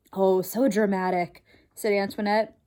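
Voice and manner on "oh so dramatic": dismissive wife. Acted. Wife mocks husband.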